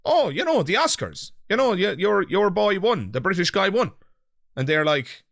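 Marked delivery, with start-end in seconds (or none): 0.1-3.9 hammed-up delight at "your boy"; mock enthusiasm. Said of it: "and I say".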